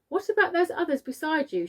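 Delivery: police chief shouting upward; shouted. A narrator's reading. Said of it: "shouted the chief of police".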